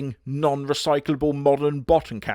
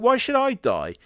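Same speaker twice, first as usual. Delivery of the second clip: 1 outraged cry; 11 semitones higher, 3 dB louder than usual. Pretend. Character's outraged question.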